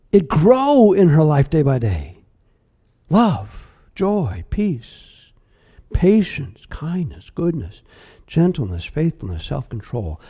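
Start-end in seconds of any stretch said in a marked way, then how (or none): 3.1-10.2 fading list. Real, not acted. Listing the fruit softly.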